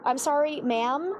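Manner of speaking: ordinary talk, nothing marked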